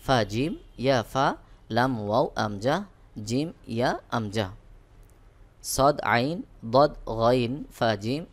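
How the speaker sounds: steady letter-name chanting, each pair set apart; teacher chanting letter pairs to memorise; rote drill recitation. Shown as a demonstration.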